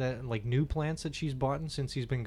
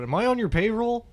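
raised, higher mock heckler yell; retold yell; 8 semitones higher, 4 dB louder than usual. Heckler calls out to the comedian mid-show, mock yell. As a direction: call it out like a cheeky heckler. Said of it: "he literally just yelled out".

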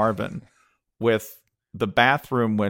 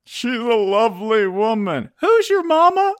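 high-pitched mock protest; hammed-up outrage, voice climbing; indignant defense; 14 semitones higher, 4 dB louder than usual. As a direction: defend mother in an offended squeal. Stall man defending his mother.

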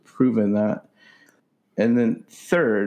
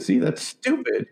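mocking wife voice; 14 semitones higher than usual. Voicing wife in argument.

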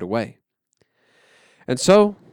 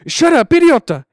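loud, high angry yell; 13 semitones higher, 10 dB louder than usual. Acted. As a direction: snap at your little brother to shut up. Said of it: "he yells".

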